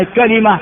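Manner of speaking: كلمة as kalima; full variant. Shown as a demonstration. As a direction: say كلمة with a, then i. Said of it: "هذه كلها لغة صحيحة". (كلمة بفتح الكاف وكسر اللام)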